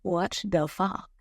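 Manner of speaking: drawn out word by word; slow, deliberate disbelief. Real, not acted. Speaker stressing shock at hexing, slow deliberate disbelief. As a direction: repeat it slowly for emphasis. Disbelief, repeated after a pause.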